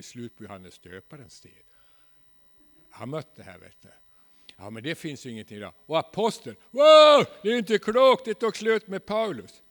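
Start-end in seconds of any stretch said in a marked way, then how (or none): 5.9-9.6 loud, high, scandalised shriek of disbelief; mock outrage. Preacher mimics a scandalised religious establishment, loud mock outrage. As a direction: ham up a shocked churchgoer crying wow.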